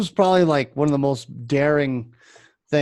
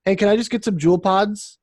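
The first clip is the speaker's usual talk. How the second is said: imitating kid customer; 6 semitones higher than usual. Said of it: "and he goes".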